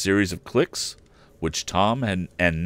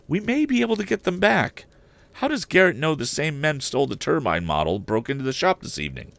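put-on much higher boyish voice, urgent; a keen lad pressing his father; eager young Tom; 9 semitones higher than usual. Tom questions his father about the theft, high and eager. Tom's voice again.

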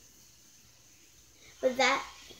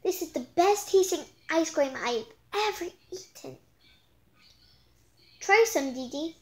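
excited rave; 4 semitones higher, 3 dB louder than usual. Acted. Todd raves about ice cream.

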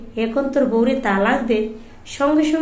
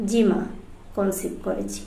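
gentle and softer, trailing away; soft-spoken; 3 semitones lower, 7 dB quieter than usual. A narrator's reading. Daughter-in-law to mother-in-law, gentle and soft. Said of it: "কোমল গলায় বললাম".

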